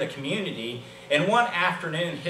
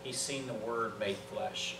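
soft, lowered pulpit voice; hushed, solemn preaching; 4 semitones lower, 9 dB quieter than usual. Real, not acted. Preacher telling the church the Word became flesh, hushed and solemn. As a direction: bring it right down and let it sink in.

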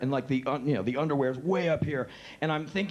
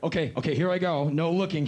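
nervous laughing; 4 semitones higher, 5 dB louder than usual. Retold or imitated. Nervous about dropping pants.

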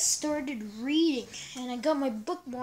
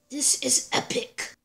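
hushed and secretive; whisper; 2 semitones lower than usual. Acted. Hushed aside before the intro.

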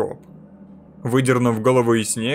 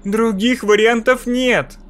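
verdict-like; 8 semitones higher, 4 dB louder, slower than usual. A narrator's reading. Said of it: "Слова прозвучали как приговор".

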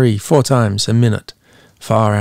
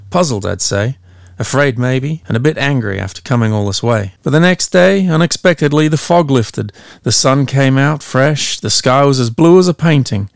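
lightly voiced old lighthouse keeper; 3 semitones higher than usual. MacDunn recounts the monster.

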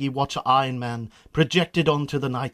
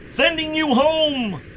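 booming Death; 13 semitones higher, 3 dB louder, slower than usual. Acted. Death answers Marty.

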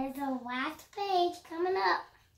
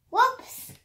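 high, loud squealed whoops; playful whoops; 10 semitones higher, 10 dB louder than usual. Real, not acted. Child squeals whoops reading to his sister. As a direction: squeal the slip with glee.

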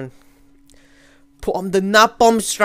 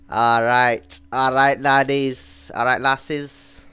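slower, lower Scottish lilt; Scottish accent; 4 semitones lower, slower than usual. Acted. Gamer greets laddies and lasses, slow put-on Scottish accent. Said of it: "I just did a Scottish accent".

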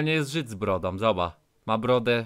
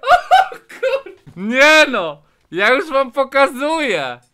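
high, loud astonished outburst; excited shout; 11 semitones higher, 11 dB louder, slower than usual. Real, not acted. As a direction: burst out in loud amazement. Stunned by another gift.

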